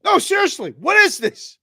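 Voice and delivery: high, loud mock-innocent asking; mock earnest. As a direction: act all innocent and amazed. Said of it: "And I'm like".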